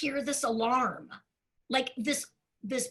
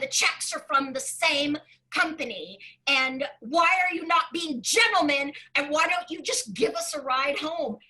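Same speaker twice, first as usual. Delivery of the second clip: retold anger. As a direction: scold the cops for not being gentlemen. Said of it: "I'm angry now".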